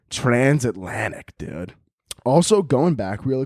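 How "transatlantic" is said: Transatlantic said slowly, syllable by syllable; spelled-out word. Shown as a demonstration. Comic slowly sounding out Transatlantic for a friend. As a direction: draw out Transatlantic deliberately. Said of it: "What are you talking about, man?".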